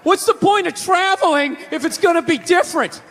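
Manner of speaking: high, griping mock rant; whiny East Coast friend.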